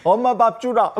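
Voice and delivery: put-on high, laughing lisped childish plea; lisping fool voice. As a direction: lisp it like a simple-minded boy begging. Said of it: "잘하시는데요?".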